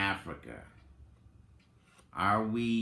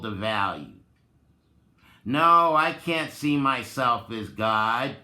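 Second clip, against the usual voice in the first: loud, exasperated mock complaint building to a near shout; hammed-up rant of a beaten-down mind; mock self-hating voice; 3 semitones higher, 6 dB louder than usual. Vlogger voices the self-hating mindset he rejects, mock ranting.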